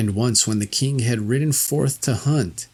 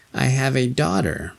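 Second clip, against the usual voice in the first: witch voice; 3 semitones higher than usual. Acted. Witch offering her daughter.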